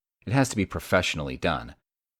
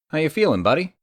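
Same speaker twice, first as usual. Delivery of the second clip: cheery greeting; 11 semitones higher, 6 dB louder, faster than usual. Acted. Cheering up injured friend.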